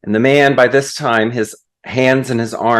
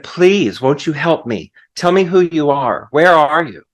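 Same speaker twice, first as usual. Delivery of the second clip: higher-pitched, urgent storyteller's plea; acted pleading; 3 semitones higher than usual. Man about to fall begs the voice, mildly pleading. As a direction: plead a little, without really shouting.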